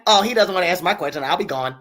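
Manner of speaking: lightly voiced entitled Karen, trailing off soft; a hint of a prissy Karen parroting back; mocking Karen voice. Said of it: "you heard that Karen voice".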